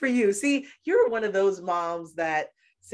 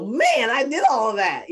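amazed at herself; 6 semitones higher, 8 dB louder than usual. Retold or imitated. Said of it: "I'll go".

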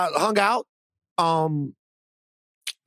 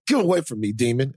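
mock rebuke. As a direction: banish a temptation, hammed up. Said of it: "and sometimes I go".

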